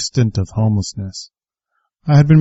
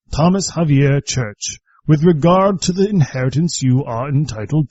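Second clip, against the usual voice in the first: deliberately bad British accent, high and measured; terrible British accent; 7 semitones higher than usual. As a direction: read the letter as a fussy British solicitor. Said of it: "my terrible British accent".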